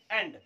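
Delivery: 'एंड' opening on e, like English 'end'; correct 'e' vowel. Shown as a demonstration. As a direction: say 'एंड' alone with an e sound. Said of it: "क्या पढ़ते हैं?".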